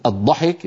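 الضحك with a plain light d in place of ض; Egyptian d. Shown as a demonstration. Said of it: "في العامية المصرية". (الضحك بدال مرققة مصرية)

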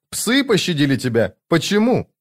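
high, anxious questioning; fearful, almost pleading. A narrator's reading. Twin sister asking Paran why he was spared, high and pleading. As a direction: let the pitch leap on a pleading question. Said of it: "почти с мольбой".

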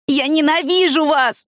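put-on high, slow hateful yell from a teen; a high, drawn-out mock scream; screaming hatred. A narrator's reading. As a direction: hurl the hatred at them, pitched high. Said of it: "снова закричала она".

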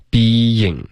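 BEING split into bee-ying; two separate syllables. Shown as a demonstration. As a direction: hold the first syllable of "being", then a clear "ying". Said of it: "把这两个音节分开". (being 两个音节分开读)

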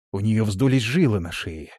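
ordinary delivery

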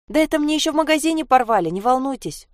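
put-on quick, high child brushing it off; fast and light, calming him down; reassuring little girl. Sasha reassures the startled young man, quick and high. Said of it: "успокоила она".

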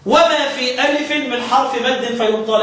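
slow chanted recitation of a verse; slow tajweed verse recital; recited verse. Shown as a demonstration. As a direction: recite the line slowly, in measure.

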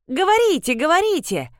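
eager, coaxing push to keep talking; encouraging. A narrator's reading. Жорж encourages the colonel to continue, eagerly coaxing. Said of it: "ободрил его Жорж".

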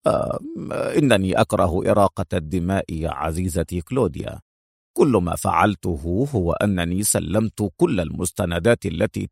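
low, casual male voice; low voice, careless indifference; nonchalant. Acted. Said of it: "في لا مبالاة".

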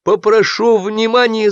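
high, slow call for attention; shout. A narrator's reading. Excited groom calling the guests to attention. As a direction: rise up and call the table to order. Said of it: "закричал он".

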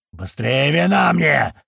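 put-on a drunk boss bellowing out the window; yelling from the window. A narrator's reading. Archi yelling from the window for wine, slow roar. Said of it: "вновь заорал Архи".

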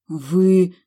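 loud breathless start; choked with outrage. A narrator's reading. Heroine stunned by the prince's cheek, loud outraged gasp. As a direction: gasp out the word in indignation. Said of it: "задохнулась от возмущения".

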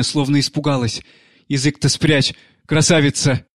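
a hint of a crazed nanny coaxing the dead; tender, desperate pleading; grieving nanny pleading. Nanny pleading over the dead girl. (няня умоляет мёртвую воспитанницу встать)

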